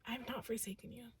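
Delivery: very soft, gentle reply; quiet divine reassurance. Acted. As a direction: softly answer a despairing plea. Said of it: "it's also this energy of".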